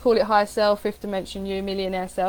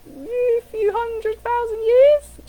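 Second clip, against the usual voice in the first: mock offhand; 13 semitones higher, 5 dB louder, much slower than usual. Playful understatement about human history.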